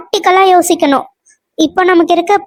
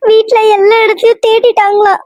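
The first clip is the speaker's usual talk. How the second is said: put-on wife tells husband the girl is missing, crying. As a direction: sob it out to your husband. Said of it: "ஏன் அழுவுற?".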